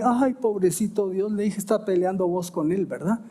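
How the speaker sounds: lightly mocking a brother who is sulking with God; sarcastic. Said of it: "de manera sarcástica". (con sarcasmo burlón)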